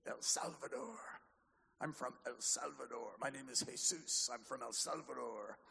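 light put-on Spanish accent; a hint of mock Salvadoran accent; playful Salvadoran accent. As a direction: lightly imitate a man from El Salvador. Playfully plays Jesus from El Salvador.

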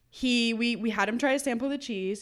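ordinary talk

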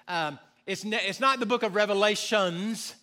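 not Revelations with a rising stress on not. Shown as a demonstration. Correcting the congregation, stress on not. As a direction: lean on not in it's not the book of Revelations. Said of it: "Here's just a little side note".

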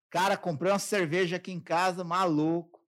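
loud, laid-back bro talk; casual buddy talk. Retold or imitated. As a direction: brag to dad like a mate at the bar. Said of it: "eu falo assim com meu pai".

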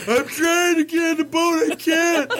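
high-pitched, strained mock wail; comic helpless squeal; mock struggling. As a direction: whine it like a hammed-up struggle to climb aboard. Mimics own struggle climbing aboard.

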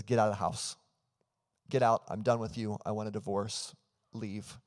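hammed-up angry husband, sharp on the second get out, fading away at the end; a mild mock of a furious husband's outburst; furious order to leave. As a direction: retell a husband throwing his wife out, the anger easing off by the last word. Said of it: "he says he's furious".

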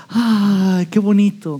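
put-on light, dreamy "ay, qué bonito" as the girlfriend; preacher voicing the wife, swooning. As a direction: play the touched girlfriend sighing. Wife swooning over husband's words.

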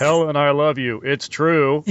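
lightly imitated stilted line reading; wooden romantic sheriff. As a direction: say it like lines being recited, not conversation. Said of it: "that's the voice too".

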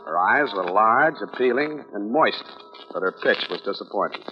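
dry hard-boiled narration; deadpan private eye voiceover; noir detective. A narrator's reading.

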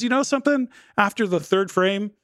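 high-pitched lead-in to a confession; imitated elderly mom. Mom revealing her bowling story, imitated in high voice.

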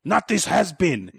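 high, put-on trash-talker voice; mock press-conference taunt. Rival camp calling out the boxer at press conference, mock-taunting.

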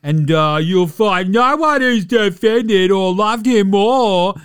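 slow, loud, whiny mock sob; tearful Skip. Mocking Skip Bayless's teary reply to Durant, hammed-up whine. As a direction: ham up a blubbering pundit. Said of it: "Skip is basically going".

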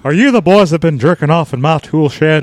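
lightly voiced indignant cartoon old man; cartoon character impression. Neighbour questioning boys about tool shed, mild indignant voice. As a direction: question them in a mild put-on voice. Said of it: "Dueling Hank Hills".

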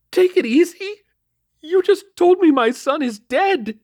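very high, loud, distraught outburst; outraged mother. A narrator's reading. Mother rages at officer over her dead son, distraught. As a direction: throw it back in shrieking disbelief, drawn out.

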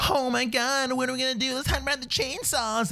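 high, soft mock panic of stranded teens; hammed-up horror-ad fright. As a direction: squeak it like a scared ad actor.

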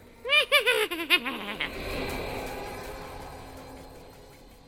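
very high, loud drawn-out maniacal laugh; evil chuckle. Acted. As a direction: cackle like a horror villain. Evil laugh after title.

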